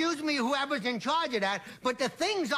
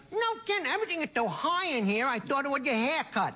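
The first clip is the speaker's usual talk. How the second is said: punchline retold. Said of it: "it's hard to say".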